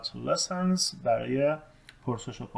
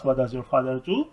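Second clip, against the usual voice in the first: slow, careful English; slow model sentence; slower than usual. Shown as a demonstration. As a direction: dictate it slowly. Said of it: "ساختار سمت راست". (جملهٔ انگلیسی آهسته و شمرده)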